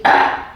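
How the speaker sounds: low sharp guttural "Ah"; sharp correction. Shown as a demonstration. Trainer demos the growl a Rottweiler gives an intruder. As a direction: bark a low warning "Ah" like a guard dog. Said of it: "like the Rottweiler that thinks someone's breaking in".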